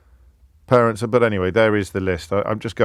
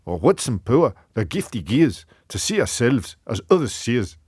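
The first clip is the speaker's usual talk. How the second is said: earnest attempt at a Scottish accent. Shown as a demonstration. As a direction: recite Burns as a Scot would. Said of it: "I'll try and do a Scottish one".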